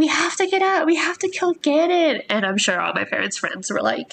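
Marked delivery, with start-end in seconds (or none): 0.0-2.2 play-acted shrill, very high battle cry. Recalling pretending to be Zelda at doorways as a child, retelling her own yell. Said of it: "I was yelling like".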